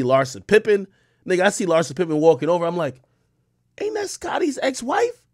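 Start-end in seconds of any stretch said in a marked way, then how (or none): 3.8-5.2 high, breathless whispered aside; hushed, amazed whisper to a friend. Retold or imitated. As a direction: whisper it like you can't believe who you see. Whispering aside on spotting celebrity.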